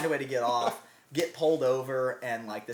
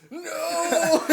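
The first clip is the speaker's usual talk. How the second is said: high, loud cry of defeat broken by laughter; laughing while imitating a defeated friend's high, loud cry; laughing mock wail; 9 dB louder than usual. Friend retelling a pizza mishap.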